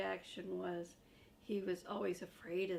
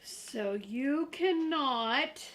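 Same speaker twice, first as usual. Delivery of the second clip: louder, high earnest puppet voice; Grover voice; 3 semitones higher, 7 dB louder than usual. Acted. Grover warns the reader about the monster, loud and earnest. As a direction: explain the danger urgently.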